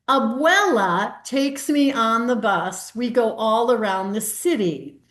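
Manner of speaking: slow storybook read-aloud to a Zoom audience; reading to children. Acted. Librarian sharing a picture book on Zoom, slow storybook reading.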